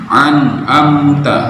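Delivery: an'amta with a throaty ain; slow an'amta, ain from the throat. Shown as a demonstration. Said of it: "dibaca pakai huruf ain". (an'amta dengan huruf ain)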